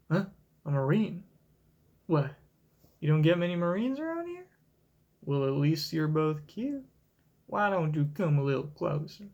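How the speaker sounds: lightly put-on country accent, teasing. Kuyaku teasing the staring boys, light country accent. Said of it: "give her a, a country accent".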